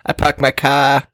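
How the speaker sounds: slow, lightly put-on Boston accent. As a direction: say it like a Boston local, slowly. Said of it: "Boston accent".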